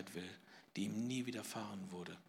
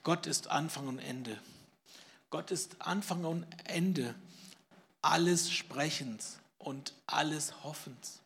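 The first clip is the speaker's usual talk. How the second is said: lauter, höher und langsam verkündet; feierlich laut; 4 semitones higher, 5 dB louder than usual. Acted. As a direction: rufe es feierlich gedehnt aus. Feierliche Schlussverkündigung. (laut und feierlich gedehnt)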